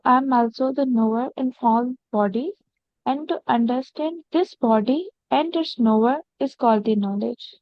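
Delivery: measured reading with pauses between phrases; slow careful reading. Real, not acted. Student rereading the sentence for the teacher, slowly. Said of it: "that sentence slowly".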